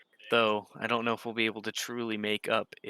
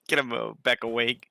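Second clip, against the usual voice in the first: ordinary talk, nothing marked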